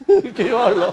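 high, laughing delivery. Real, not acted. Teacher joking with class about a flowing tongue, laughing. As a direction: say it through an amused laugh.

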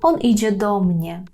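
"Он іде до mnie" with "до mnie" joined, ДО stressed. Shown as a demonstration. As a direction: lean on ДО near the end of "Он іде до mnie". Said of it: "передостанній склад".

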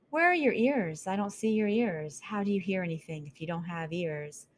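put-on a curious young mouse asking; curious mouse girl. Mouse changes subject.

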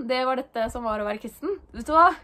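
normal talking voice

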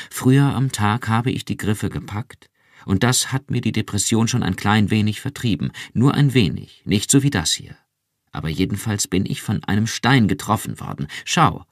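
höher und lauter, lebhaft; aufgewühlt berichten; erregt erzählend. Acted. (Iran erzählt Rick aufgewühlt vom Verschmelzen)

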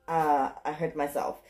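ordinary delivery

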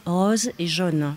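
"rose" et "jaune" prononcés avec l'accent du Limousin; accent du Limousin. Shown as a demonstration. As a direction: say "rose" and "jaune" the regional Limousin way, not the Parisian way. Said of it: "je continue de dire". (« rose » et « jaune » à la limousine)

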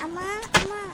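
loud call for mum. Acted. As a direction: call out to your mother in another room. Calling out for mother.

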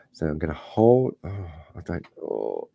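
tight, held-breath words; holding breath. Real, not acted. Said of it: "I'm holding my breath".

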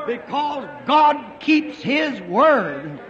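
slow, ringing declaration; preaching shout. Real, not acted. Preacher drives home God's faithfulness with a slow shout. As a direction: proclaim it slowly to the whole crowd. Sermon climax on God's promise.

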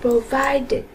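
"Provided" ending in an "it" syllable; -ed read as "it". Shown as a demonstration. Teacher repeats the answer for pupils, "Provided" ending in "it". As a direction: add "it" to the end of "Provided". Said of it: "chúng ta đọc là it".

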